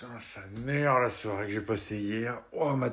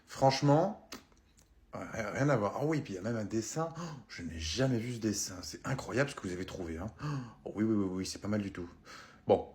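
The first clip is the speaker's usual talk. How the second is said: lowball the customer sweetly; pawnbroker. Acted. Antiquaire qui négocie. (antiquaire radin, voix basse et douce)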